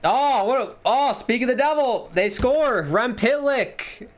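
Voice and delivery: high, delighted goal call; slowing right down to name the scorer Rem Pitlick; excited surprise. Real, not acted. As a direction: burst out as the puck goes in. Sudden goal right after predicting it.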